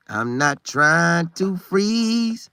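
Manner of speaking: drawn out slowly, leaning on freeze; long, deliberate I'm not trying to freeze; slow emphatic repeat. Real, not acted. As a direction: stretch every word to hammer it home.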